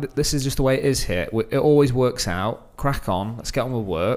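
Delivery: ordinary talk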